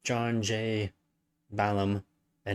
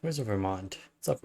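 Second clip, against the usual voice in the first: talking through hiccups; a hiccup breaking the words. Real, not acted. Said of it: "I have the hiccups".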